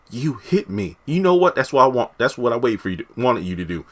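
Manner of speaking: high, scheming diva voice; Veronica Harrington. Retold or imitated. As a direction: play it like a smug soap villain. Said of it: "Fatima turned into Veronica Harrington".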